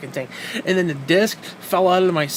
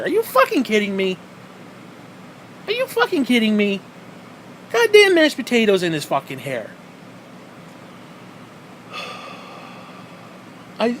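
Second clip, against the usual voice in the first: exasperated disbelief; 5 semitones higher than usual. Real, not acted. Exasperated rant.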